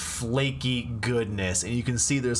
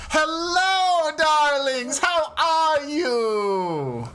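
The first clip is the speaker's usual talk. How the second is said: high-pitched sultry greeting, louder; femme fatale; 4 dB louder, much slower than usual. Acted. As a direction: purr a welcome to the darlings. GM voices the baker's greeting.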